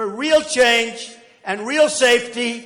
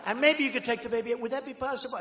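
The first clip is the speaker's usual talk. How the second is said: quiet, faster, overly courteous ask; a hammed-up gentle plea, quickly; mock polite; 4 semitones higher, 6 dB quieter, faster than usual. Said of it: "I did it so nicely".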